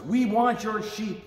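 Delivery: slow, high mock yell from the thieves. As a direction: drag it out like a gang of thugs. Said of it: "they yelled".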